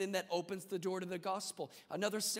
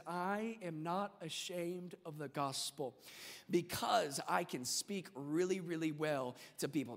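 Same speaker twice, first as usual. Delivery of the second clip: mock-reading a wrong verse; mock misquote; 2 semitones lower than usual. Shown as a demonstration. Preacher misquoting scripture as a joke, lightly mock. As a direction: read it with a touch of smugness. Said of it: "No, no, no, it doesn't say that".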